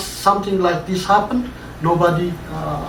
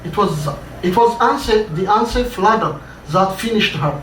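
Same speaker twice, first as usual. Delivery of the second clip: crying out; faster than usual. Acted. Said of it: "another man from the crowd cried".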